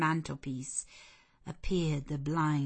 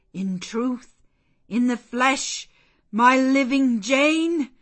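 loud, raised exclamation, building to the end; overjoyed wonder; 6 semitones higher, 11 dB louder than usual. A narrator's reading. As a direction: build to a cry of amazed joy. Man overjoyed that Jane is real.

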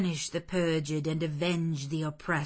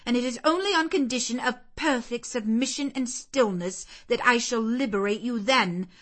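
loud, higher, cold stern lecture; severe aunt; 5 semitones higher, 7 dB louder than usual. Acted. Mrs Reed sentencing Jane to the red room, severe. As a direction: crush the child's defiance.

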